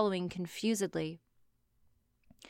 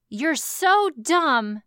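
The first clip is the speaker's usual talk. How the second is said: slow, higher and condescending; 4 semitones higher, 3 dB louder, much slower than usual. Acted. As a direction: talk down to her slowly. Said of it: "voicing Sherlock's insult".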